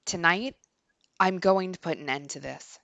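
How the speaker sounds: composed, measured inner monologue; story narration. A narrator's reading. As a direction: read the narration with quiet resolve. Reads the game's inner monologue.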